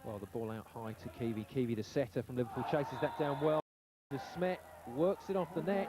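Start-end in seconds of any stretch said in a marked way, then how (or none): 4.1-5.9 excited call. Real, not acted. Live call of a rally.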